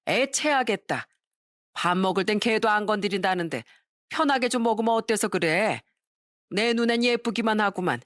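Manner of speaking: a hint of a mother-in-law spoiling her son; doting mother-in-law. (아들을 감싸는 시어머니 말투, 살짝 높게)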